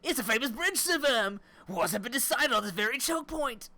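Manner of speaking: exaggerated British voice, high and loud; British accent. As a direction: play an over-the-top British tour guide. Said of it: "Why would you want me to do a British accent?".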